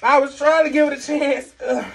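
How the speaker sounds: talking while chewing fruit; muffled by food in mouth; mouth full, chewing. Real, not acted. Seen 2: Hand at mouth with green piece, jaw working while talking.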